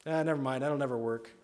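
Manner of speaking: mildly dismissive self-doubt; half-hearted, giving-up skepticism; selling oneself short. Acted. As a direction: wave your own idea away. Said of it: "then they sell themselves short".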